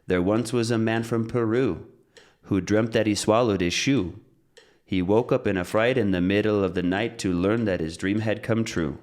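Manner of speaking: bouncy metronome-timed verse with unstressed words squeezed between beats; rhythmic limerick. Shown as a demonstration. Teacher demonstrates a limerick to the metronome, rhythmic recital. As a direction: recite on a steady beat, stresses landing evenly. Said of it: "Let's get the metronome back".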